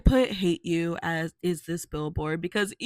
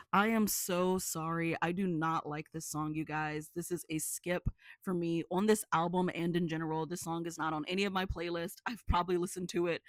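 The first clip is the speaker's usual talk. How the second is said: sheepish quiet; 8 dB quieter than usual. Real, not acted. Sheepish dislike confession.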